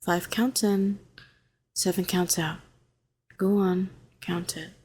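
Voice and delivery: calm, even, gentle coaxing; soothing reassurance. Acted. Calming a frightened hero in the tank, soothing. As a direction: talk them down steadily, with space between phrases.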